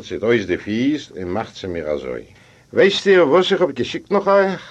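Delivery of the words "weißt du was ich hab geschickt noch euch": lightly acted, higher and louder; host addressing guest. Host asks his guest across the room, higher, projected voice. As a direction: pitch the question up, projecting it to the guest.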